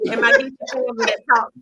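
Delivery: quick, tumbling words; fast-talking apology; rapid-fire talking. Real, not acted. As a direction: rattle it off like a machine gun. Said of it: "talks like they a thousand mile a minute".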